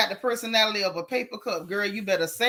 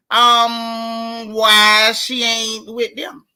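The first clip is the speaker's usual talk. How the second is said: mock question; 6 dB louder, much slower than usual. Mocking rumor question.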